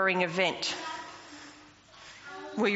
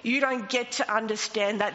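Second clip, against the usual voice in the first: gentle rebuke. Retold or imitated. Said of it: "He gave me a gentle rebuke saying".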